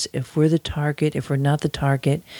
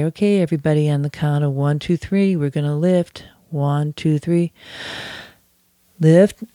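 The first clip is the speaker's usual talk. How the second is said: group lift call. Retold or imitated. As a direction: call the count, shout lift.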